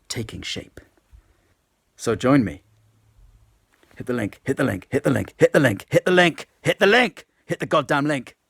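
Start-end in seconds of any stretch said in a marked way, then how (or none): 2.0-7.2 from firm to shouting; rising chant of a frenzied pitch; building to a shout. Acted. Building sales yell. 7.4-8.3 shouting. Acted. Climax of sales yell.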